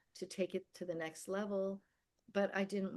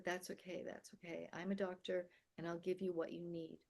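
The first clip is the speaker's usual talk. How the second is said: softer, soothing reassurance; soft comforting; 6 dB quieter than usual. Retold or imitated. Elderly doctor holding a frightened girl, soft and soothing. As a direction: hush it gently, like calming a crying child.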